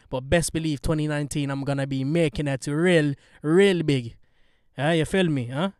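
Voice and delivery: badly faked Yardi patois; half-baked Yardi accent with some punch. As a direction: put on a rough Yardi accent. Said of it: "That was such a bad Yardi accent".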